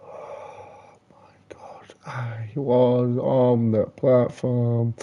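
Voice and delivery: slow, breathless whisper; hushed, slow disbelief; stunned whisper. Real, not acted. Disbelief after falling in game.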